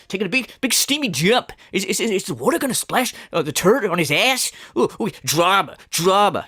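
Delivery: high, mock-excited gasping at drama. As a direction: gasp "ooh, drama" like a gossip fan, mocking. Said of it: "You want taking a shit?".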